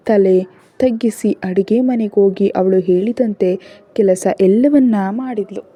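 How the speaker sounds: usual speaking voice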